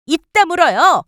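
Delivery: high, loud cutting order; sharp rebuke. Acted. Wife silencing the mother-in-law, loud and sharp. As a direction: shut her down hard.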